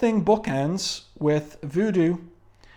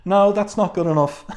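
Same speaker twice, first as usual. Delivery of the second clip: indignant protest; 6 semitones higher, 7 dB louder than usual. Real, not acted. Reviewer protests the comic's teasing.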